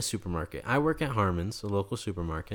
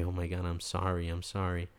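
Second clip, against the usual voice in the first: soft, subdued retold consolation; tender apology; 3 semitones lower, 4 dB quieter than usual. Holding a sobbing widower in his arms, tender apology. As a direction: console him gently, voice lowered.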